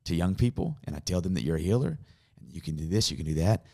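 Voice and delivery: low, subdued private prayer; understated, earnest pleading; retold prayer. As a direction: confide a doubt to God. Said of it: "And I'm praying".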